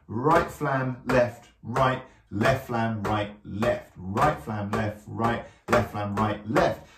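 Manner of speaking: measured, word-by-word count of the hands; rhythmic sticking call. Shown as a demonstration. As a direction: call "right flam, left, right" evenly on the beat. Calls out sticking in time.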